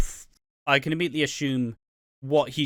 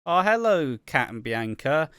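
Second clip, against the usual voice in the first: higher, louder acted hello; mock greeting; 3 semitones higher, 4 dB louder than usual. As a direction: call out a mock hello, pitched up. Acted greeting of two characters.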